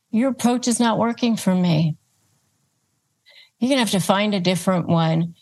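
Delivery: steady, even and matter-of-fact; calm boundary-setting line; calm firm statement. Shown as a demonstration. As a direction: state it calmly, hand it back. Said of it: "you're pushing it back on them".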